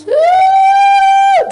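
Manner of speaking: loud high whooping cry; husband's cry. Retold or imitated. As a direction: let out a sudden wild cry. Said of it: "teriak gitu".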